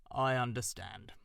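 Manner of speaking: a wise owl questioning from his hollow; stern old owl. Acted. Owl voiced in story.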